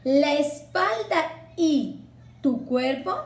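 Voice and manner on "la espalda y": "la espalda y" slow, with the final "a" gliding into "y"; sinalefa demo. Shown as a demonstration. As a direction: draw out "la espalda y" as one linked chain. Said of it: "Por ejemplo".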